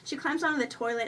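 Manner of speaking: plain reading voice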